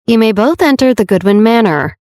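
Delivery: words pushed through clenched teeth. Acted. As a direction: bite down and force it out. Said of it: "Henry said through clenched teeth".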